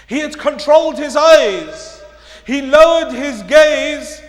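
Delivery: loud, high and punched; projected, ringing restatement; emphatic preaching. Real, not acted. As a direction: drive the point home forcefully. Key point repeated at full force.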